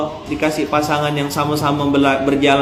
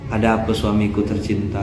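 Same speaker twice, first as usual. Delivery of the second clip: tender wife; 7 semitones lower, 4 dB quieter than usual. Pretend. Wife soothing angry husband.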